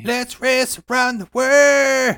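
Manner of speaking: slow booming announcer call. Acted. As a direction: boom it out like a game show host. Dramatic race-around-the-world call.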